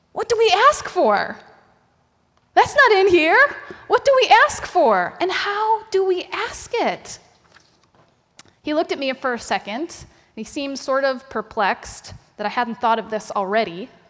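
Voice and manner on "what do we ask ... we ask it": mock, high-pitched, panicked delivery. Retelling asking Derek about the passage before preaching, retelling a panicked question. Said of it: "with some panic in my voice".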